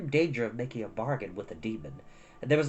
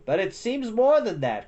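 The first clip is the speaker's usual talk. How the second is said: higher, louder crackle; crackling demon; 7 semitones higher, 4 dB louder than usual. A narrator's reading. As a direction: spit the words like burning wood. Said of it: "crackled the demon".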